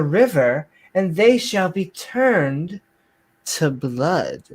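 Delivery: slow, grand scripture proclamation; stretched-out King James declamation; mock-biblical reading. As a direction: pronounce divine judgment with hammy solemnity.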